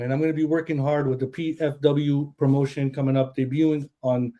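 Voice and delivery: breathless, catching his breath. Real, not acted. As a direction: talk while still winded. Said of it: "I'm out of breath".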